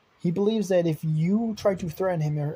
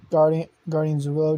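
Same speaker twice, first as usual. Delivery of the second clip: louder urgent call; 7 dB louder than usual. Acted. Cecil calling out to Guardian Zulo on the phone. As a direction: call the name out over the phone.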